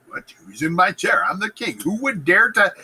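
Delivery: indignant, acted royal outrage; mock indignation. Macbeth finding someone in his chair, mock indignation. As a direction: demand it like an affronted king.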